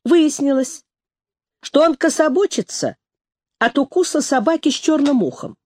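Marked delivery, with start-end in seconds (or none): none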